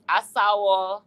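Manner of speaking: "Asawo" said slowly and clearly as a-SA-wo, set apart; showing pronunciation. Shown as a demonstration. Host teaches the Kalabari title for a married man, careful demo. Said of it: "That's how you say".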